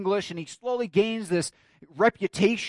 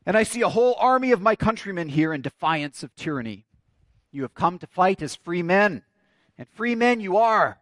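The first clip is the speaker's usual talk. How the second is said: William Wallace; 2 semitones higher, 3 dB louder than usual. Acted. Wallace rallies an army of his countrymen, rousing oratory. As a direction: address the troops, slowing on the last phrase. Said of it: "he says this".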